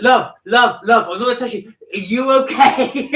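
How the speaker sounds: high, loud motherly voice; kindly woman voice. Retold or imitated. A kind passer-by calling to the woman in her bra, high and loud. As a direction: call out love as a concerned stranger. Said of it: "And he said, one, one woman came up".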